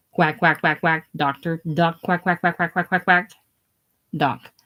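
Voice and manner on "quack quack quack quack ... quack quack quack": rapid repeated duck-like jeer; taunting chant of one word; mocking quacking. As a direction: heckle him with a run of quacks. The speaker mocks Doc as a quack.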